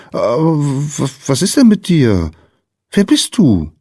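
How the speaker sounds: stumble, then ask in wonder; puzzled little girl. A narrator's reading. Girl questions the strange small visitor.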